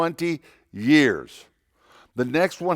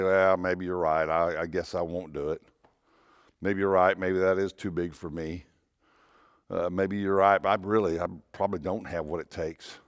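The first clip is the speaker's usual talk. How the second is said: lower, deflated giving-up voice; defeated resignation; 5 semitones lower, 4 dB quieter than usual. Retold or imitated. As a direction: sound like you've already quit. Voicing someone giving up.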